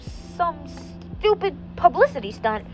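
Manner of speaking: mild shout. Acted. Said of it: "Benny shouted".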